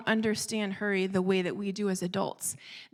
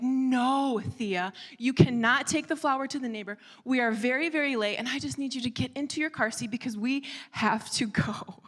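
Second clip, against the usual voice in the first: higher, emphatic parental no; exasperated refusal; 3 semitones higher than usual. Retold or imitated. Mother running very late refuses her daughter, exasperated. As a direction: lay down the law to a dawdling child.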